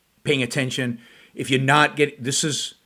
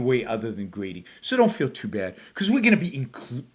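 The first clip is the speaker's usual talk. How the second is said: mock condescending; 2 semitones lower, 4 dB quieter than usual. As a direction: lightly mimic someone talking down. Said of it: "he is so condescending".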